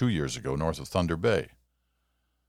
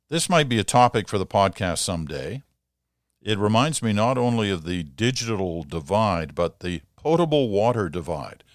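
reading a letter aloud; 3 dB louder than usual. Acted. Host reads listener letter aloud.

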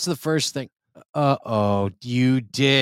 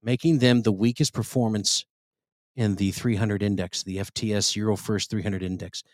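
mock grave news read. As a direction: read it like dire breaking news. Reads news story gravely.

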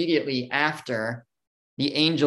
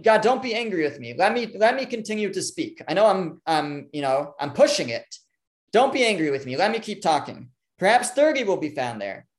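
lightly acted nervous plea, higher pitch; a little nervous, begging; 3 semitones higher than usual. Avram keeps bargaining with God, mildly nervous and begging. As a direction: beg cautiously, with a touch of nerves. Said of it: "a little nervous now because he's begging God".

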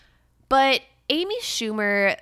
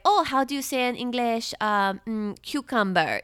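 imitating a put-on Spanish accent, higher at first; affected Spanish accent; 3 semitones higher than usual. Mocking her Today Show clip, affected Spanish accent. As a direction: lightly mimic a faked Spanish accent, hesitating over the word. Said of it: "she's speaking in an affected accent".

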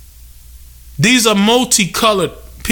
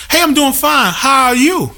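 lightly voiced polite reply, higher pitch; a mildly put-on courteous answer, pitched up; 7 semitones higher than usual. Venting about customers who only say hey, polite higher-pitched reply.

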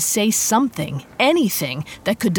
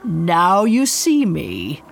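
sinister taunt; slower than usual. Acted. Demon taunts heroine, then vanishes.

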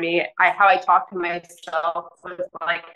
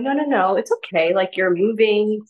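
gentle, kind; 3 semitones higher than usual. Retold or imitated. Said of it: "you have such a gentle, kind voice".

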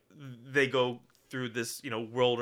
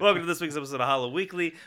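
announcer; 4 semitones higher, 3 dB louder, faster than usual. Acted. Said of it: "This is the real intro".

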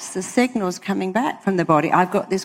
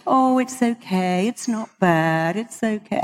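half-hearted; 3 semitones higher than usual. Shown as a demonstration. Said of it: "I tell it very clearly, not".

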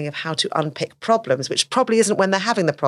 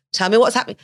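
demanding question; 5 semitones higher, 5 dB louder, faster than usual. Retold or imitated.

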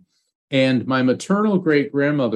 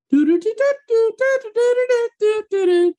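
much higher, cartoon bird laugh in chopped do-do syllables; Woody Woodpecker laugh. A medium relaying a spirit's message to a client, high Woody Woodpecker laugh. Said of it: "I'm hearing Woody Woodpecker".

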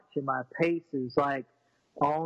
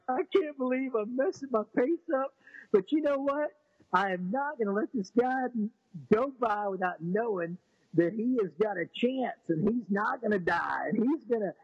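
higher, tearful and overcome; crying; 5 semitones higher than usual. Retold or imitated. Runner retells stopping his race in tears, with a higher crying voice. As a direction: speak through tears with resolve. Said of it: "And I cry like a baby".

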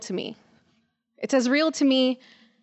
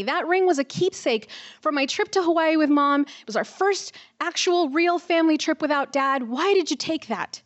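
angry big sister winding down; retold scolding; 6 semitones higher than usual. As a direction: drag out the reproach, still raised. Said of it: "And I yelled at him".

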